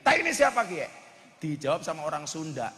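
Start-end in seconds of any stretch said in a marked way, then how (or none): 0.0-0.9 higher, louder Ngapak dialect question; Ngapak speaker. Retold or imitated. Tegal man in Bandung asks about dung, Ngapak accent. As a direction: ask it like a startled Tegal man. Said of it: "Orang ngapaknya bilang kayak Kiai".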